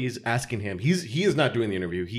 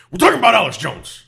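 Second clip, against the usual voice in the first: announcer voice; 6 semitones higher, 9 dB louder than usual. Pretend. Mock show intro announcement.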